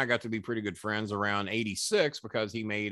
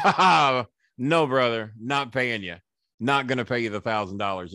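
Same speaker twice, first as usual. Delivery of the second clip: mocking refusal; 4 dB louder than usual. Flair refusing to pay, retold.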